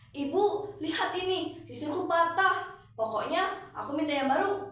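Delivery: high, loud spoiled demand; spoiled daughter demanding a new comb from mother; demanding whine. Acted. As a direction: insist like a spoiled child.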